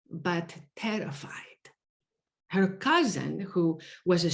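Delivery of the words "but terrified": whispered. Real, not acted. Recalling student's fear.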